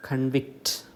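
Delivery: കൺവിക്ട് as con-VICT; stress on second syllable. Shown as a demonstration. Teacher introducing the verb form, con-VICT for കൺവിക്ട്. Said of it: "it falls on the".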